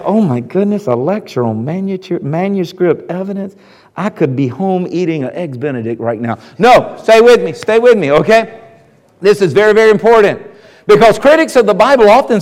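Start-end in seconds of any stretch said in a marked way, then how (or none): 0.0-6.4 lower, softer mock groan of boredom; bored listener. Preacher voicing a bored congregant, low mock groan. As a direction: sigh it like someone who'd rather be home. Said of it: "before you tune me out and say".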